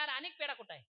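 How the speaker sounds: a touch of loud, high-pitched interrogation; questioning master. Acted. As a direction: lightly play a boss demanding an answer. Master questions servant about missing sweet.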